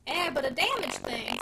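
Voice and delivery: slow, mock-disdainful dismissal; lightly scornful packman; deprecating disgust. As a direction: run down his own goods. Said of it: "in a tone of deprecating disgust".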